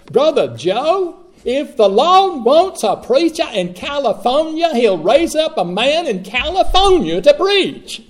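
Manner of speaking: high, loud, ringing pastoral declaration; emphatic pronouncement. Retold or imitated. Pastor telling young Joe where to preach, loud declaration. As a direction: proclaim it like a final verdict.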